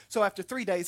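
ordinary talk

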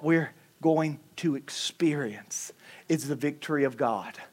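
hushed whisper. Real, not acted. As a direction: drop to a whisper on the promise. Hushed aside after proclamation.

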